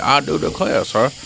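lightly put-on old-school Southern accent; a hint of a genteel Southerner. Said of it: "like a old school Southerner".

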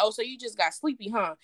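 understated sarcastic jab, rising into the question; sarcastic, a little irritated. Retold or imitated. Woman retelling her dig at a silent caller, mildly sarcastic. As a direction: needle him with mild annoyance. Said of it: "Me being very sarcastic and very, a little irritated".

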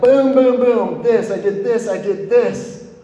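unload every guilty secret in one rush; blurted confession. Retold or imitated. Boss admitting her sabotage to the coach, a hurried, rising confession. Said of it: "She's like".

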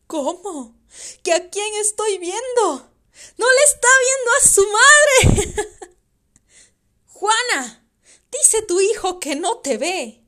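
loud, high, wild-eyed; manic drunk. Acted. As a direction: rave at the boy then call to the ghost. Father raves about the ghost.

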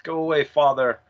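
begging. Retold or imitated. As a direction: plead with him to leave, hammed slightly. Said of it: "she begs him".

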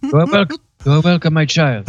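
lightly voiced old Pope. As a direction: benevolent papal blessing. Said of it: "the latest one that you've been doing is the Pope".

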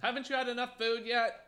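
very high pet-talk voice; high-pitched mock scolding of a pet; talking to the dog. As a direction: tease a dog in a squeaky-high coo. Teasing the dog about food.

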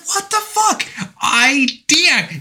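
high, exasperated cry of disbelief; frustrated outburst. Retold or imitated. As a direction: blurt it out like a man whose plan just failed. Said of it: "you can hear the frustration in his voice".

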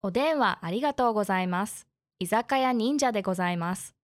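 bright polite phone greeting; customer service voice. Acted. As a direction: answer like restaurant staff on the phone. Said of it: "I love your beautiful N H K Japanese".

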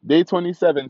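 excited anime character yell; anime hype shout. Pretend. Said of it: "Like my anime folks".

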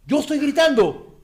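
loud, high, drawn-out retold astonishment; acted cry of disbelief; shocked realisation. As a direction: blurt it out slowly, suddenly realising. Acting out sudden realisation of screaming.

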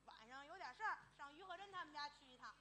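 soft acted soliloquy; murmured to himself. Visitor replays setting out for Yu's house, murmuring to himself.

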